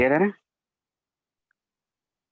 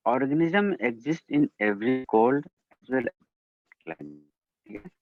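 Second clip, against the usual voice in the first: bad connection; much slower than usual. Real, not acted. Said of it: "Sir, your voice is not clear।".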